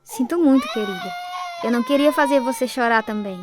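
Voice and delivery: soft tearful comfort through sobs; crying. Acted. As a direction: comfort your little sister while crying. Girl comforts sister while crying.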